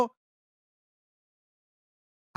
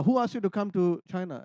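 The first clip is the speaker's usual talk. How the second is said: gentle God voice. Retold or imitated. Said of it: "the Lord asked me".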